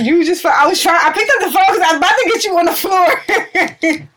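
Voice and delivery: high, loud and breathless; nearly crying with relief; frantic laughing relief. Real, not acted. Relief after near loss.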